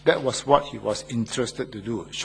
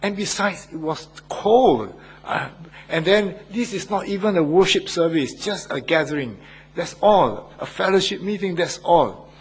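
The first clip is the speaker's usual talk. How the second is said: indignant self-defense; 5 semitones higher than usual. Retold or imitated. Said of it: "That was my first reaction".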